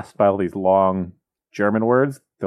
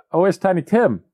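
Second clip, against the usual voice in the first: mock Scrooge; 9 semitones higher, 3 dB louder than usual. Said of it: "And then he's like".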